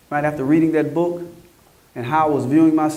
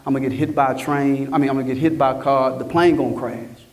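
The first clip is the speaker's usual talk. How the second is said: lower, rushed inner voice of fear; retold panicked thoughts; 4 semitones lower than usual. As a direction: replay the scared thoughts racing through your head. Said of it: "I'm like".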